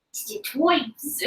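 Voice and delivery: slow cartoon New York accent; drawled Pokemon New York voice. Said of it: "does he have, like, a New York accent?".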